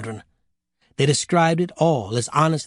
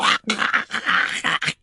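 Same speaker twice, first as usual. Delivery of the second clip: mock death throes; 7 semitones higher than usual. Acts out dying of happiness.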